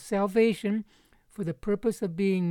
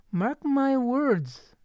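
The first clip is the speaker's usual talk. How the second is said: higher, very slow solemn command; apostolic authority; 7 semitones higher, much slower than usual. Acted. Paul warns the Galatian disciples, with apostolic authority. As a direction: pronounce it slowly as an apostle's decree. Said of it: "Paul is almost speaking apostolically here".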